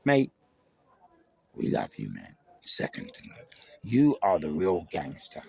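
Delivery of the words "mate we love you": normal talking voice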